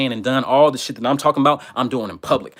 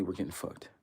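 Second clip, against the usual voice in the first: ominous low murmur; 7 semitones lower, 19 dB quieter than usual. Acted. Dramatic refrain about being doomed.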